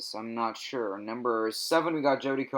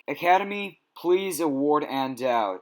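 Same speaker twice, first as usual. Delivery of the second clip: mock plea; 3 semitones higher than usual. Pleading to the Academy.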